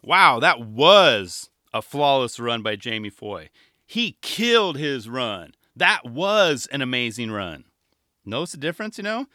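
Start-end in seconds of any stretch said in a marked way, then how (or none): 0.0-7.6 loud, slow play-by-play praise; slow loud mock commentator gushing; hyped commentator. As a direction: gush like a booth commentator.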